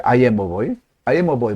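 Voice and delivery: put-on "I am a boy" pushed from the throat. Shown as a demonstration. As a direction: speak "I am a boy" tight, from the throat. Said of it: "목에서 나오죠". (목에서 나오는 소리로)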